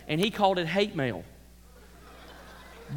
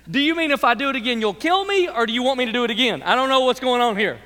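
put-on fast, higher, puzzled child pleading; confused child; 3 semitones higher, 5 dB louder than usual. Child asking the angry parent what he means, fast and puzzled. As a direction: rush the questions like a baffled kid. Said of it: "And you go".

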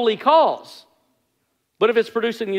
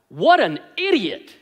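blurted insult; 3 semitones higher, slower than usual. Retold or imitated. To the slow car ahead, a drawn-out exasperated blurt. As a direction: mutter the insult at the slow driver. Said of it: "I just blurt out".

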